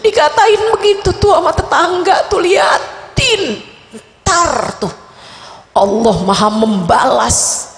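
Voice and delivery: lightly voiced whiny hurt mother; mock a petty, offended mum; a hint of a complaining mother. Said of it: "model ibunya yang nangisnya karena tersinggung".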